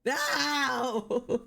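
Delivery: high, drawn-out howl of dismay; pained wail. Real, not acted. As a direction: wail as if wounded.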